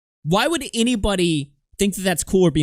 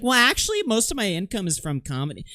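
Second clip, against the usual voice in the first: mock prissy correction; 6 semitones higher than usual. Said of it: "And she's like".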